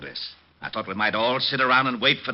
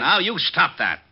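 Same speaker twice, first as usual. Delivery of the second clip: stern reproach; 8 semitones higher, 4 dB louder, slower than usual. Acted. Lieutenant cuts off Diamond's joking.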